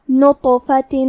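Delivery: نطفۃ with the heavy taa bounced; qalqalah on taa. Shown as a demonstration. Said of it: "حرف کو ہلاتے ہوئے". (نطفۃ میں طا کا قلقلہ)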